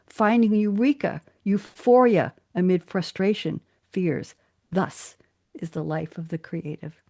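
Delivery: slow, emphatic poem recital; dramatic reading of her own acrostic. Shown as a demonstration. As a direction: lean on each word of the poem. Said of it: "I'll emphasize the words".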